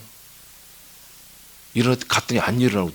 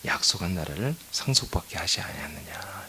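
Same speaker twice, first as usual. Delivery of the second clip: scripture whispered; 5 semitones lower, 10 dB quieter than usual. Acted. Pastor reads scripture softly.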